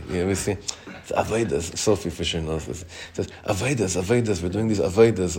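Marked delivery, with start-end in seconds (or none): 1.1-1.8 avodas said as "a-VOY-das"; imitation of a singer. Teacher quoting a singer's way of talking, avodas as "a-VOY-das". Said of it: "He speaks like this a lot lately". 3.4-5.4 avodas said as "a-VOY-das"; imitation of a singer. Teacher imitating a singer's pet word, avodas as "a-VOY-das". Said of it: "He speaks like this a lot lately".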